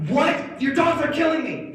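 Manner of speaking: high, loud outraged yell; frantic shout. Acted. Mauled student answers teacher's question, frantic shout. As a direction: shriek back in disbelief and panic.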